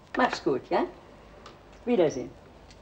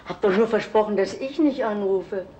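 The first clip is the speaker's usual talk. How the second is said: aufgeregter Einfall; 5 semitones higher, 4 dB louder than usual. Acted. Mutter hat plötzlich eine Idee.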